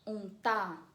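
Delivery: "Untar" stressed on its final syllable; stress on last syllable. Shown as a demonstration. Teacher showing the tonic last syllable, final stress. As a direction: land the weight on the end of "Untar". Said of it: "a última sílaba é a tônica".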